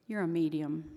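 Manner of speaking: put-on deadpan child's verdict, loud; emphatic, matter-of-fact mimicked pronouncement; imitating granddaughter. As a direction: deliver it straight on as a grandchild's solemn judgement. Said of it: "looked at me straight on and said".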